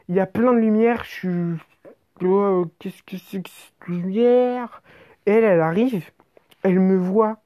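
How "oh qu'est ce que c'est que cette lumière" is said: slow hushed whisper of wonder; slow whispered awe at the light; awed whisper. Retold or imitated. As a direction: breathe it out, dazzled.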